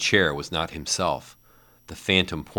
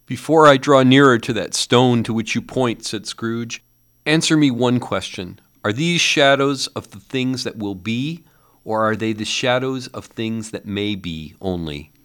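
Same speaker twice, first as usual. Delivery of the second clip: higher, louder fearful plea; a frightened old man demanding an answer; Scrooge; 6 semitones higher, 5 dB louder than usual. A narrator's reading. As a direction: Scrooge pleading with the silent ghost.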